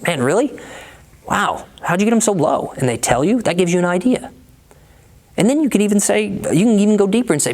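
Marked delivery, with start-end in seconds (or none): 0.0-2.7 higher, impressed and curious; voice of curiosity. Shown as a demonstration. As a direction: sound genuinely amazed by their deal. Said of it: "ask it in a voice of curiosity".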